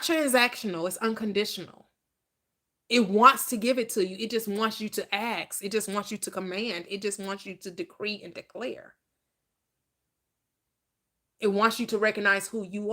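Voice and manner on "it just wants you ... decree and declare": softening preacher. Acted. Preacher drops to soft intensity.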